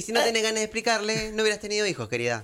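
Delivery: fast, high, sneering lecture; condescending scold. Pretend. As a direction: talk down to her like a snooty lady.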